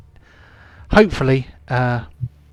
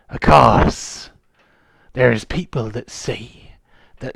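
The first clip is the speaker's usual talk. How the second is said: lightly voiced old sea dog; a hint of a grizzled pirate. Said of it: "my pirate voice".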